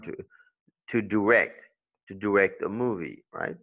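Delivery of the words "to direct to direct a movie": "direct" stressed on RECT; quick DI, strong RECT in "direct"; second-syllable stress. Shown as a demonstration. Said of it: "it's on the second if it's a verb".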